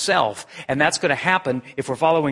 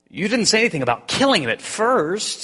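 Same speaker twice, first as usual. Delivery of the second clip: higher, alarmed protest; 8 semitones higher than usual. Acted. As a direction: back off in alarm. Ghost protests.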